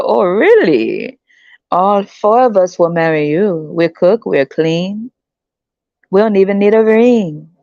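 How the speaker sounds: slow, sugary put-on women's voices; mock eager women. Women promising to marry the American, slow sugary voice. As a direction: sell it sweetly to him.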